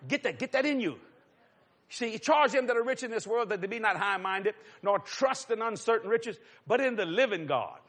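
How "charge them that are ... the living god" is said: solemn scripture recitation; scripture reading. Acted. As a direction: read it out with weight. Preacher quotes scripture.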